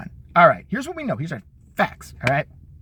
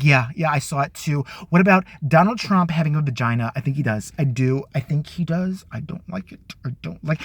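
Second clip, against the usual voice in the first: mocking Mika Brzezinski; 5 semitones lower than usual. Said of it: "she just sits there talking like she's got fucking Tourette syndrome".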